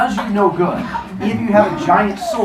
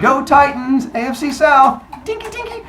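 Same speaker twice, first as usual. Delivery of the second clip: cheering toast; 10 semitones higher, 3 dB louder than usual. Acted. Football fan toasting with his drink, high and cheering.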